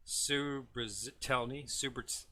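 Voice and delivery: slow, unsure stab at "Subrazitelny"; tentative pronunciation attempt. Real, not acted. Host trying the ship's name, tentative pronunciation. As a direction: sound out "Subrazitelny" haltingly, then break off. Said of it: "not even gonna attempt to pronounce".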